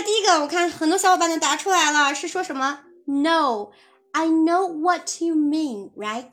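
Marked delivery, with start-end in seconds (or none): 3.1-6.3 friendly. Shown as a demonstration. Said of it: "语气上会友好一点".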